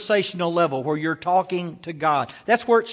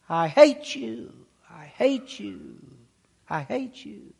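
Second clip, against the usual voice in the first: imitated echo, slow and ever softer; fading echo; 3 semitones lower, 7 dB quieter, slower than usual. Valley echoes the boy's yell back, fading echo. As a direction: repeat it slowly like an echo dying away. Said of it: "And it echoed".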